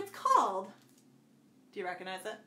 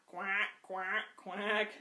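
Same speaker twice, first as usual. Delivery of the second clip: playful quacking; duck quack; 2 semitones lower, much slower than usual. Shown as a demonstration. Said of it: "Let's do their sounds".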